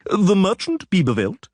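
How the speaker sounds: high, crowing official call; lightly voiced crowing official. A narrator's reading. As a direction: call out like a pompous crier. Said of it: "crowed an individual".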